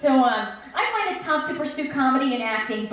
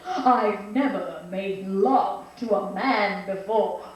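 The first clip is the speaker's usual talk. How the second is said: slow, lower, hammed-up innocence; innocent little girl; 5 semitones lower, slower than usual. Director showing an actor the line, mock-innocent. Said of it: "like an innocent little girl".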